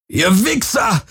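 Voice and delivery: high-pitched outraged cry, volume held back; yelled curse. A narrator's reading. Galen curses the attackers after the shot, high contained yell. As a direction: hurl the insult with pitch shooting up. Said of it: "schrie Galen".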